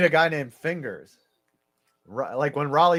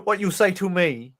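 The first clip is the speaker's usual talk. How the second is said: put-on Vietnamese accent; 2 semitones higher than usual. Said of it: "perfect Vietnamese accent".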